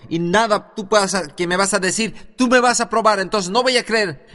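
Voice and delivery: mock the old man's angry defiance, building to a yell. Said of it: "empezó a ponerse rojo y a gritar".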